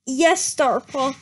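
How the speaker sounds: slow, slightly low, understated snarl; a hint of a mad cat; mild snarl. Firestar answering his apprentice, a faint slow snarl. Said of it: "snarled Firestar".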